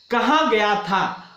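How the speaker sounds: slow, with weight on कहा; stressed phrase. Shown as a demonstration. Teacher demonstrating stress, कहा slow and weighty. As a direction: lean hard on कहा, drawn out slowly. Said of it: "थोड़ा सा जोर देकर उच्चारित करेंगे".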